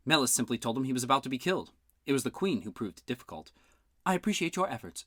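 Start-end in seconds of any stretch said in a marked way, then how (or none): 4.1-5.0 polite. A narrator's reading. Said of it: "she said politely".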